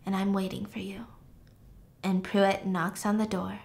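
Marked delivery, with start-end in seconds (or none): 0.1-1.1 breathy whispered promise; soft seductive whisper. Retold or imitated. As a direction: whisper it like a secret lure.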